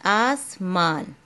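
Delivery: आसमान drawn out very slowly, each sound held; teacher sounding out आसमान slowly; slow syllable by syllable. Shown as a demonstration. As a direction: stretch आसमान out for the child to follow. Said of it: "मैंने आपको बताया था".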